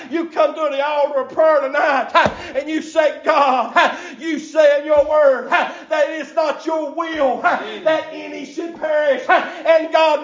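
preaching at full force. Acted. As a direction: whoop it up like a revival preacher, breath punching every line. Preacher builds into chanted preaching.

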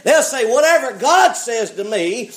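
emphatic preacher, swelling on key phrases; impassioned preaching. Real, not acted. Preacher thanking God for bold preachers, impassioned preaching. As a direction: declare it to the church with rising force.

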